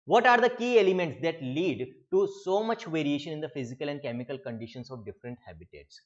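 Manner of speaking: slow, deliberate reading of the book line; slow dictation-style reading; textbook read-aloud. Acted. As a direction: read it out slowly for students to underline. Reads textbook question aloud.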